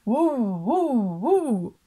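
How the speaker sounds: loud woofing bark of a big dog; deep dog bark. A narrator's reading. Narrator imitating the dog barking in the tent, loud woof. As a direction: bark it out like a huge mastiff. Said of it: "basowe szczekanie psa".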